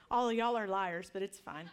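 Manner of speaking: teasing with a laugh through it; laughing playful jab. Real, not acted. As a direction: laugh as you tease them.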